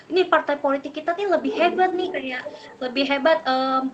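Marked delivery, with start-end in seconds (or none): 0.1-2.1 higher, proud party boasting; boastful bragging. Retold or imitated. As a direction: brag about your own party. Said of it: "mereka cenderung mengunggul-unggulkan kayak".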